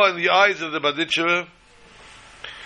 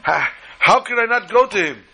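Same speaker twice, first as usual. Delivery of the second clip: pleading; 6 semitones higher than usual. Retold or imitated. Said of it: "But he says".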